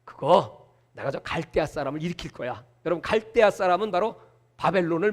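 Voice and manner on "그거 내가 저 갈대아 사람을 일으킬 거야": lower, softer voice of God; God calmly assuring the prophet, low and soft; God answering. Retold or imitated. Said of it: "했더니".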